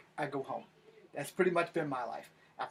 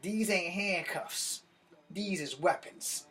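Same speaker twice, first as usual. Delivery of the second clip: deliberate boast; 4 semitones higher, slower than usual. Retold or imitated. Boasting to guy who taunted him.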